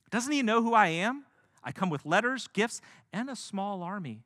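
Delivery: high, loud offended bellow; outraged shout. Acted. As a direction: shout it like a snubbed dignitary. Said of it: "He is deeply offended and outraged".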